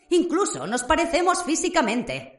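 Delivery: lightly voiced sinister young wizard; Riddle's voice. Riddle speaks to Harry. (voz burlona y amenazante de Riddle)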